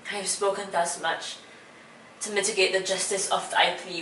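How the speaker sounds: hushed, deliberate stage verse with pauses; Shakespeare monologue. Acted. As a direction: plead quietly, phrase by phrase, as Portia. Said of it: "I will be performing a monologue".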